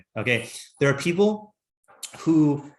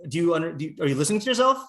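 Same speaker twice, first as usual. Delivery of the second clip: exasperated teacher; 3 semitones higher, 3 dB louder, much faster than usual. Retold or imitated. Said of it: "And I'll be like".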